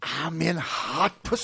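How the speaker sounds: slow, lightly voiced pursuing lawman; mock sheriff catchphrase. Host riffing on a police foot chase, mock sheriff catchphrase. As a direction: draw it out like a movie sheriff.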